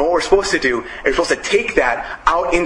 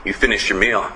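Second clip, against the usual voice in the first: menacing cook; 6 semitones lower than usual. Retold or imitated. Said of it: "the guy's like".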